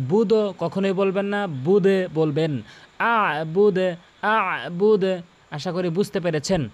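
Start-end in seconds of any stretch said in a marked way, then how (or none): 3.0-5.0 আবুদ with আ pressed; আবুদ with a firm first আ; pressed abud. Shown as a demonstration. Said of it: "আ চাপ দিয়ে বলবেন".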